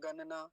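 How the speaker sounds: गणना as gan-na, plain dental n; imitated mispronunciation. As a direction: swap retroflex for dental n in गणना. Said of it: "तो क्या कहते हैं".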